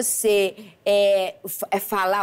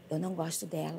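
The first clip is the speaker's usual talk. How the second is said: laughing imitation; 3 semitones lower, 13 dB quieter, faster than usual. Mother jealous of granddaughter.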